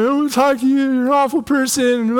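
high-pitched mock tantrum wail; overreacting upset kid. Upset kid to stepdad after crying all the way home, mock wailing. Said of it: "emotional and overreact a little bit".

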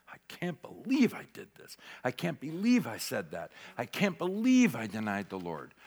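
hushed, mock-tearful disbelief; imitated weeping. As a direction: softly act out a man weeping with regret. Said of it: "Weeping and crying".

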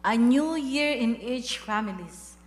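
earnest spoken prayer to God. Acted. Pastor leading the church in closing prayer, devout. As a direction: pray it over the congregation, steady and devout.

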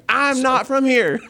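put-on showing the accent for a friend who asked to hear it; South Carolina accent. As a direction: redo the thick South Carolina accent through a laugh. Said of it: "I wanna hear the accent".

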